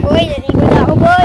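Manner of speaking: high, loud shout across the beach; calling out. Real, not acted. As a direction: yell it out to your friend far away. Calling out to a friend. (sumisigaw na tumatawag)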